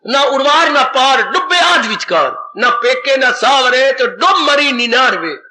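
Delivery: slow, measured scripture verse; preacher quoting verse, deliberately paced; verse recitation. Acted. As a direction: recite the couplet with drawn-out key words.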